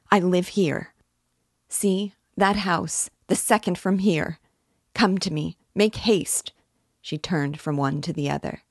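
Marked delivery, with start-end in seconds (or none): 0.1-6.5 high, pleading urgency; imploring. A narrator's reading. Sonia begging strangers to bring Katerina home, imploring. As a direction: beg them anxiously to hurry. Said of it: "Sonia implored".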